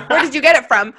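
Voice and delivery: emphatic retold exclamation; exclaimed question. Reading out her text to a friend, mildly exclaimed. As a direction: mildly exclaim it, punching "get". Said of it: "And then I exclaimed".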